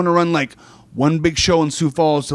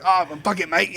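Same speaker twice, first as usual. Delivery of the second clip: lightly attempted Scottish accent, drifting toward Australian; bad Scottish accent. Guest imitating Grado's reply, in a shaky Scottish accent. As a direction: have a poor go at a Scottish accent. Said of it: "I don't have very good Scottish accent".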